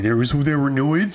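retold surprise. Telling the co-host of missing the noids, surprised. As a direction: act out a baffled double take. Retelling own surprised reaction.

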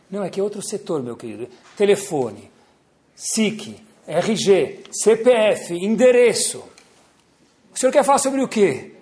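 call centre agent. Retold or imitated. Agent repeating the same questions.

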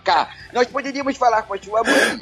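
high cartoon dad voice, lisping; Ricardo voice with a lisp. Shown as a demonstration. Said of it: "Eu fiz o teste fazendo a língua presa".

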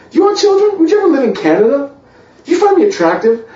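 high, rapid-fire mock date questions; over-eager questioning. Man grilling his first date with too many questions, over-eager.

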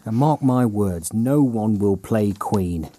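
mock solemn. Dramatic slow pronouncement.

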